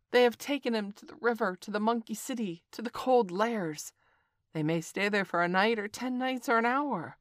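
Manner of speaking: high bird voice; a lightly voiced bird; kite voice. A narrator's reading.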